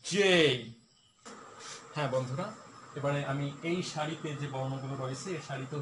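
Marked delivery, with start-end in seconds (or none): 0.0-0.6 "জে" said a bit louder, as a model; teacher models "জে" for repetition; repeat after me. Shown as a demonstration. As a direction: class repetition of "জে". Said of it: "repeat".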